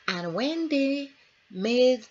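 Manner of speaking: breathy slowed whisper. Real, not acted. Storyteller leaning in to the class, whispering. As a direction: drop to a secret whisper.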